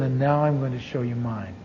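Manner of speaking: soft, low, tender voice of God; loving and compassionate. Retold or imitated. God speaking lovingly to John in a hotel room, soft and tender. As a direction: gently reassure him, half-voiced. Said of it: "he spoke very lovingly and very compassionately".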